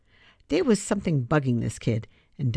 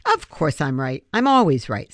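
smug; 4 dB louder than usual. Acted. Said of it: "The way she said it made Free smile".

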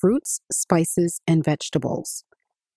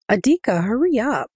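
cheerful call; 5 semitones higher than usual. Acted. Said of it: "she called cheerfully".

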